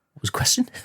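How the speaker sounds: whispered joke; mock-forgetful whisper. Joke about forgetting question.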